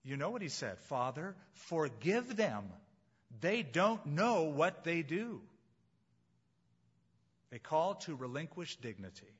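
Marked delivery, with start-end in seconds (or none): 0.8-5.4 slow, gentle plea for forgiveness; understated tender prayer. Acted. Jesus forgiving from the cross.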